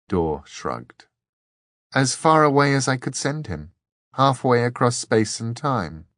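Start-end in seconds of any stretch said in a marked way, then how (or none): 1.9-6.1 lightly voiced young woman, raised a little; a hint of Dor's girlish voice. Dor answers the abbot.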